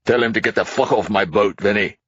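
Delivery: put-on angry drunk tycoon. A narrator's reading. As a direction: spit it at the cops. Hastings voiced as character.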